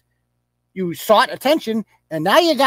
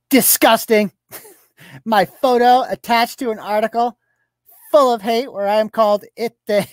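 high, loud mock disgust; mocking tweet read; 5 semitones higher, 3 dB louder than usual. Blogger reads her next tweet to viewers, mock-disgusted. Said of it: "then she writes another one".

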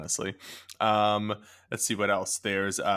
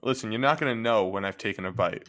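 chewing while talking; 3 semitones lower than usual. Real, not acted. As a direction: mouth full of pie. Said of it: "You sound like you're chewing right now".

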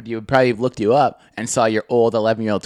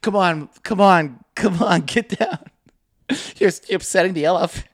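imitated annoyed handler; 4 semitones higher than usual. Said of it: "the guy's getting pissed".

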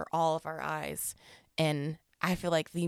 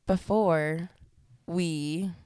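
stifled giggles; 5 dB louder, much slower than usual. Real, not acted. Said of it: "I was laughing at you".

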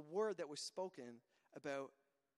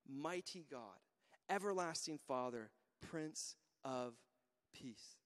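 slow, measured verse reading with weighty pauses; scripture reading; 4 semitones lower than usual. Acted. Preacher reads the prophecy to the congregation, slow and solemn.

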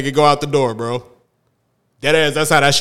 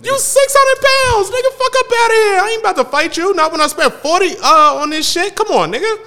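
comic impression. Comedy bit quoted at start.

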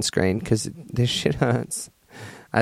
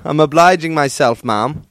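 mock butler; 4 semitones higher, 5 dB louder than usual. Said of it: "your butler would respond".

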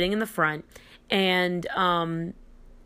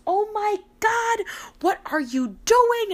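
much higher, mock-panicked mom shriek; mom yelling. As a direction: imitate a startled mother in the car. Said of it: "my mom starts yelling".

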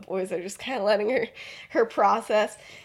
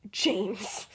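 softer, contained "James"; restrained address; 5 dB quieter than usual. Retold or imitated. Lily pressing James to talk privately, restrained.

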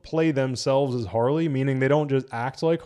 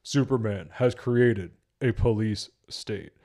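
slow, stilted mock delivery; badly delivered Batman; slower than usual. Reviewer showing how bad the Batman line was, stilted. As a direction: spell it out woodenly, word by word. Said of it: "The way he's just like".

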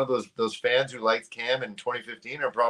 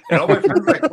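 high-pitched excited "yo"; amazed, high shout-out; excited call-out; 12 semitones higher, 6 dB louder than usual. Retold or imitated. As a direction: call out to a stranger you've spotted. Retold fans calling out in amazement.

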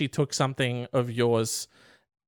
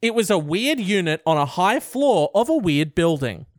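louder repeat; 5 semitones higher than usual. Shown as a demonstration. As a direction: read it louder and higher. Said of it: "Sorry, what?".

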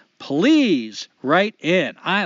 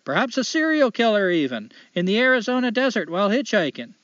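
put-on Canadian accent. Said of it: "I'm gonna try to do a light Canadian accent".

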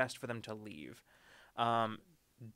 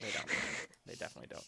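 whisper; 3 semitones lower, 5 dB quieter, much faster than usual. Pretend. Joking denial, whispered.

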